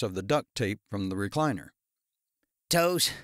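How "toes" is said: croaked. A narrator's reading. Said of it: "Darren croaked".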